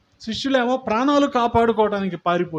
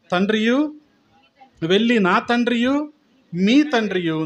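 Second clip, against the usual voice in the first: slow, measured Bible reading voice; scripture reading; slower than usual. Acted. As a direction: read the verses out slowly and solemnly to the congregation. Reads the Bible passage aloud. (నెమ్మదిగా, గంభీరంగా వాక్యం చదవడం)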